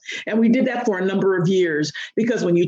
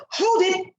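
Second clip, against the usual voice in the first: put-on commanding child; 10 semitones higher than usual. Daughter retells scolding classmates.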